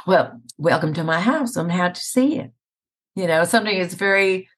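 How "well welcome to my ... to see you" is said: gentle Southern lilt; lightly Southern, welcoming a guest; subtle Southern accent. Shown as a demonstration. Guest showing the host a mild regional accent, subtle Southern. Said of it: "sometimes it's very subtle".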